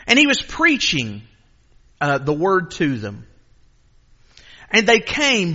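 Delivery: deliberate, measured public Bible reading; scripture reading. Real, not acted. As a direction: read scripture aloud, pausing phrase by phrase. Reads scripture to congregation.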